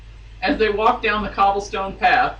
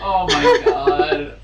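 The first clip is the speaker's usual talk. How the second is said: much higher, shrieking laugh-crying; helpless laughter; 12 semitones higher, 5 dB louder, much slower than usual. Real, not acted. Cracking up at her own joke, laughing until crying. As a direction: lose it completely.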